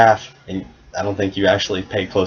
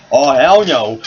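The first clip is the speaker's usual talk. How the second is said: angry outburst; 4 semitones higher, 6 dB louder, slower than usual. Acted. GM voices Harvey, furious.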